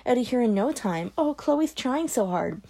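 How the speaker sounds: high mocking falsetto, sneering; mock a goody-goody in a sour falsetto; bitter falsetto. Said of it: "She switched to a bitter falsetto".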